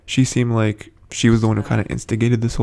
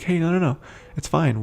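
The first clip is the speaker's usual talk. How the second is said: retold reassurance; 6 semitones higher, 5 dB quieter than usual. Aaron reassuring Eugene.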